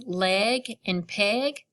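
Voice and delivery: slow teaching example. Shown as a demonstration. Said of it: "for example".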